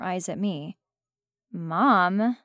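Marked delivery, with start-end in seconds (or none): 1.5-2.4 sighing out the word; a weary kid's mild sigh; exasperated sigh. Acted. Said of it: "she sighs".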